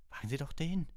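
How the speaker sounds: put-on high, loud boyish retort; insistent protest. A narrator's reading. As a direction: fire back at the professor, pitched high. Ron protests to the professor.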